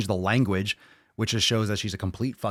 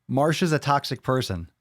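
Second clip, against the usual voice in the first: sarcastic echo of a critic's claim; mocking quote; 3 semitones higher than usual. Mocking Leah's claim to viewers, sarcastic. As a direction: parrot the line with scorn. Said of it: "Said no one ever except this Leah".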